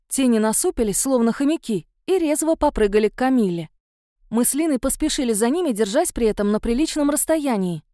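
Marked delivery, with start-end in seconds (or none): none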